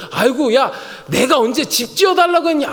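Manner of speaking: high-pitched, homely mock protest; protesting God. God reacts to David's offer, homely mock protest. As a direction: fuss as if you never asked. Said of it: "하나님의 뜻이 지금 이거예요".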